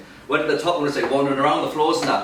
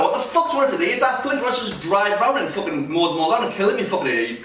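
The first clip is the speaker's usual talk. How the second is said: retold telling-off; 5 semitones higher than usual. Confronting old driver out of car.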